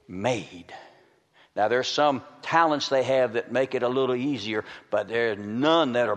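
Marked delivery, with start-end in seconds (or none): 0.1-0.7 sudden drop to low and soft; hushed punchline. Real, not acted. Preacher reveals how champions come about, dropping to a hush. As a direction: let the payoff word fall low after a pause. Punchline after a held pause.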